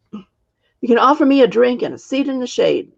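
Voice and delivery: a hint of a tired old witch making demands; old witch asking for a seat, lightly voiced; husky old witch. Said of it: "her voice was unexpectedly husky".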